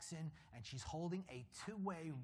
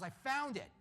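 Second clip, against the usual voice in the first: mock excited find; 9 semitones higher, 5 dB louder than usual. Man finding stairwell door.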